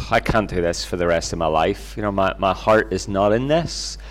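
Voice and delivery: understated retold weariness; resigned inner thought. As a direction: think it aloud with a sinking heart.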